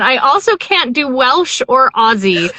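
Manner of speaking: normal talking voice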